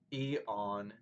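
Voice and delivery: "E on" set apart as one foot, weight on "on"; stress on ON. Shown as a demonstration. Teacher demonstrating metrical feet, stress on "on". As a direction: scan "E on" with the beat on "on". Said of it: "on the word on".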